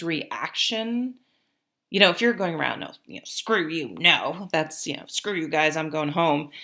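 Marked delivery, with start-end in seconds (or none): 2.8-4.5 lightly hammed-up rude attitude; rude brush-off. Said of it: "type of attitude". 5.1-6.5 mock snippy refusal, a bit louder; lightly hammed-up rude attitude; rude brush-off. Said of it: "type of attitude".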